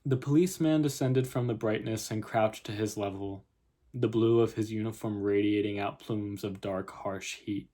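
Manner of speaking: measured literary reading; story narration. A narrator's reading. Writer reads her opening scene to viewers, story narration. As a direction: read the story out in even phrases.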